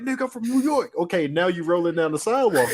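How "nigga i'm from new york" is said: much higher, cocky New Yorker voice; mock boastful New Yorker. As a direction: brag like the kid before the beating. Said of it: "he like".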